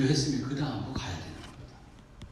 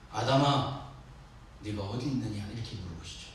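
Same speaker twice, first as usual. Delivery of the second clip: soft, low mild calling; gentle, dignified; 6 semitones lower, 6 dB quieter than usual. Shown as a demonstration. Preacher as God asking Adam in Eden, dignified and gentle. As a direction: voice God asking calmly and with restraint. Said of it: "이렇게 점잖게 말했을지".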